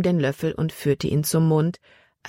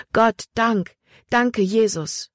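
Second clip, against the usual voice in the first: higher, slowing on the thanks; grateful praise; 6 semitones higher, slower than usual. Acted. Emma thanks God with raised arms, higher, slow grateful praise. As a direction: lift every word up to heaven.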